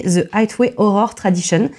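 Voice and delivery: English-accented Highway Horror Tradition; self-mocking English accent. Real, not acted. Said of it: "désolée pour mon accent de merde".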